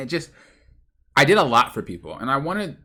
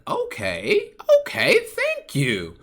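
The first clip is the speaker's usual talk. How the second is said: laughing thanks; 8 semitones higher, 3 dB louder, much slower than usual. Retold or imitated. Grateful reply to generous client.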